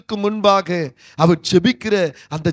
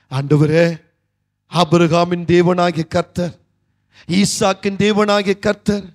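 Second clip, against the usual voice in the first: blessing prayer; 2 semitones lower than usual. Retold or imitated. Retells his blessing prayer.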